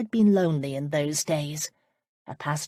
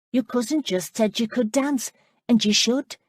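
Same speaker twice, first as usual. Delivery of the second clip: put-on higher, lighter voice for the girl Amanda; bright young girl pressing a question; young woman's voice; 6 semitones higher, 5 dB louder than usual. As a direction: play the eager young lass, pitched up. Amanda's voice, narrated scene.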